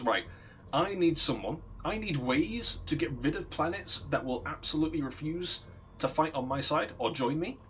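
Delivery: lightly voiced commanding general, measured; deliberate, slightly formal recruiting pitch. General setting out his needs, measured authority. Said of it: "looks at him and goes".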